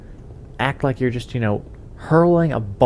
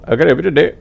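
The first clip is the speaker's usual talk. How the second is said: louder echo of the helpdesk greeting; imitated telemarketer; 4 semitones higher, 7 dB louder, much faster than usual. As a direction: mimic the other agent's script back. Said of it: "You know".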